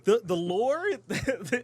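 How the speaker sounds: laughing through the words; can barely talk for laughing. Real, not acted. Laughing about their old lore.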